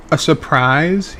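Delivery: slow, smirking query. Acted. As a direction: savour the word like a sly joke. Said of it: "with a smirk".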